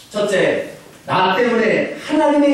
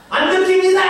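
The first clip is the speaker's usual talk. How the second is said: 안득희입니다 said much higher and louder; high student answer; 4 dB louder, faster than usual. Retold or imitated. Student repeating his name to the teacher, much higher. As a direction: pitch 안득희입니다 way up.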